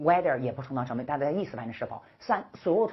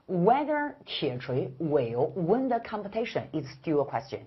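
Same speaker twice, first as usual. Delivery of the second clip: slow, clear read-aloud for the class; slow model reading; 2 semitones higher, slower than usual. Shown as a demonstration. Teacher modeling the sentence slowly for students. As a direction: spell every word out slowly. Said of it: "再来一遍".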